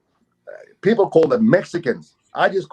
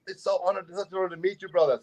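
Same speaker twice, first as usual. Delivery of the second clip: humbled greeting; 3 semitones higher, 6 dB quieter, faster than usual. Retold or imitated. Acts out moved man meeting him.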